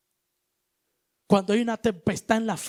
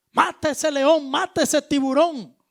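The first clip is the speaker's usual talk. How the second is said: shouted plea; 4 semitones higher, 3 dB louder than usual. Retold or imitated. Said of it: "Tú le pegas un grito".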